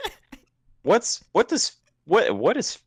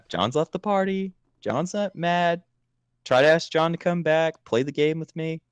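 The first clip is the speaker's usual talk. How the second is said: higher, deliberate status announcements; mock notification voice; 5 semitones higher than usual. Friend mocks John rage quitting the game, deadpan announcer. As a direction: announce each event like a game alert. Recites party notifications mockingly.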